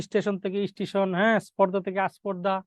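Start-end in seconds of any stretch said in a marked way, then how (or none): 0.1-0.4 second "স্টেশন" with an i before the st; added initial vowel. Shown as a demonstration. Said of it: "এগুলো সবই হচ্ছে আদি স্বরাগম উদাহরণ". 2.1-2.6 "আস্পর্ধা" opening on a clear a before sp; added initial vowel. Shown as a demonstration. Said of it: "এগুলো সবই হচ্ছে আদি স্বরাগম উদাহরণ".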